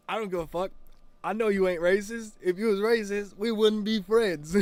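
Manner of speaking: loud, high voice of insistent friend; emphatic imitation. Friend's emphatic reassurance, retold.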